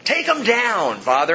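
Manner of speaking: acted vengeful plea with emphatic high starts; vengeful prayer. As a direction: call down payback in prayer. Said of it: "it sounds vengeful".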